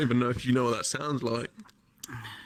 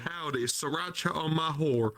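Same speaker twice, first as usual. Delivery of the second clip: mock southern accent. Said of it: "trying to do a southern accent".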